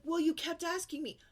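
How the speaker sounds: high, loud whiny comeback; sassy kid retort. Retold or imitated. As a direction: mimic a defensive child. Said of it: "She's like".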